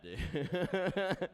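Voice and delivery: high, loud stretched dude; high excited dude. Real, not acted. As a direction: squeal the dude at the punchline. Laughing punchline tag.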